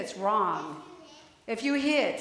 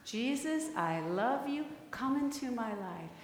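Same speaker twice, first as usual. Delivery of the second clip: soft repeated prayer; 6 dB quieter than usual. Shown as a demonstration.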